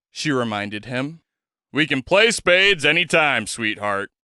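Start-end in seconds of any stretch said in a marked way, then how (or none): 1.7-4.1 robust charm. Acted. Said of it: "with a robust charm".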